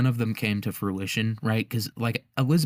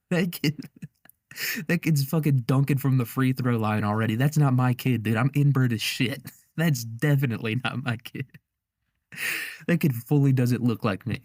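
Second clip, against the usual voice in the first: mock-indignant, higher voice cracking into laughs; outraged husband; 3 semitones higher than usual. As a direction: protest incredulously as the betrayed husband.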